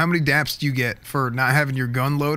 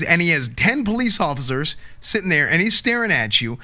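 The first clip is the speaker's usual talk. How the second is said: raised and louder, heated defence; hurt and angry; 3 semitones higher, 3 dB louder than usual. Acted. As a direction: push back hard, stung and indignant. Defending the shooting to his superior.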